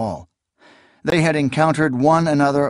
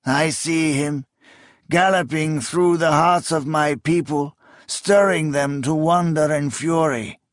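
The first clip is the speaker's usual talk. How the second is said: awed rising excitement; 4 semitones higher than usual. Acted. King's eyes grew wide, vision.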